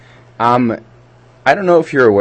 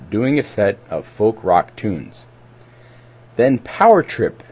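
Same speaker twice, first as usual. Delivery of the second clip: scripted community-radio event read; measured public-announcement delivery. Real, not acted. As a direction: read the listing aloud, stepping through names and details.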